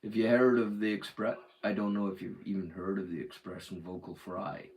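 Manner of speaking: put-on general American; full American accent. Shown as a demonstration. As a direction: switch into an easy American accent. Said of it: "going full American".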